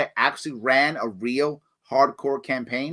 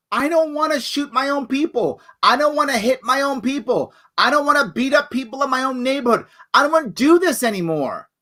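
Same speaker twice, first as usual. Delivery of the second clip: high, pleading cop voice, much higher pitch; a cop saying he's done, pitched up high; voicing the cops; 11 semitones higher, 4 dB louder than usual. Cops voiced refusing orders.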